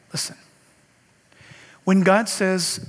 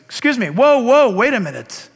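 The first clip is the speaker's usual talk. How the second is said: much higher and louder, urgent; stunned stranger; 5 semitones higher, 4 dB louder than usual. Acted. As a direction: burst out in amazement. Stranger stunned by God's message.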